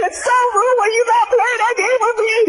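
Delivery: hammed-up scolding in a put-on woman's voice; mock black woman yelling. Brother scolds the gamers for playing without him, mock yelling woman. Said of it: "that was him doing a black voice".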